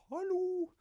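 high-pitched shouted hallo; retold yell. Scared homeowner yelling at intruders, high shout. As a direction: call out like someone catching burglars. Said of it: "noen skrek".

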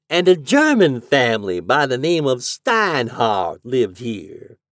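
high, loud drawling landlady; landlady's drawl. A narrator's reading. Landlady telling the lodger the house history. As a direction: gossip about the dead man.

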